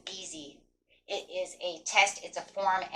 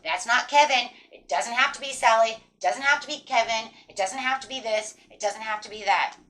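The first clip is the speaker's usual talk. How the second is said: a louder, insistent pep talk to herself; firm self-talk; 3 semitones higher, 6 dB louder than usual. Retold or imitated. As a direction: push back hard at the doubts. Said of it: "I just said".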